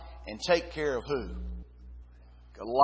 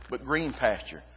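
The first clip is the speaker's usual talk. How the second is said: "green" leaned on, set against plain "pasture"; stress on green; 4 semitones lower than usual. Shown as a demonstration. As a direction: make "green" the word that matters. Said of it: "It didn't just say pasture".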